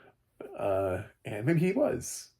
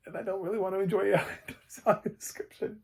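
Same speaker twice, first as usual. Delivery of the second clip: laughing; 11 semitones higher, faster than usual. Real, not acted. Laughs at enjoying possible AI.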